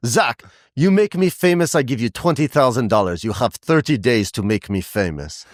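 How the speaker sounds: hammed-up Russian accent, starting high and falling; bad Russian accent. Russian singer demanding that her publicist make her famous, bad Russian accent. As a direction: do a terrible Russian woman's accent. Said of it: "this is gonna be the worst, uh, Russian accent".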